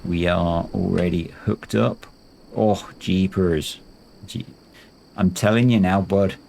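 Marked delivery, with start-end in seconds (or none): 2.5-6.3 lightly put-on Canadian accent. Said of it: "That's supposed to be a Canadian accent".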